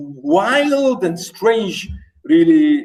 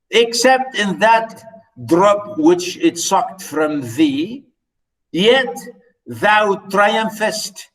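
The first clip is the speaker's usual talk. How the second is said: slow, careful recitation of verse; slow poem reading; slower than usual. Acted. Lecturer rereading the poem's ending to students, slow. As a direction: stretch out "thou triumphest". Reads the poem aloud slowly.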